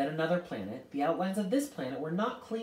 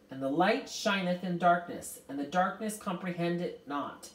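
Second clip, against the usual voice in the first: raised, declaimed scripture; triumphant; 4 semitones higher, 3 dB louder than usual. A narrator's reading. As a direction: recite it with measured triumph. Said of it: "shone out at the triumphantly".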